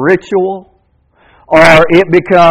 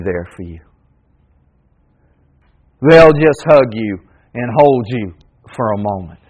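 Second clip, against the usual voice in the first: much lower, much softer, intimate; hushed, heartfelt closing; tender hush; 8 semitones lower, 6 dB quieter than usual. Acted. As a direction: draw them close, gently. Tender close about caring people.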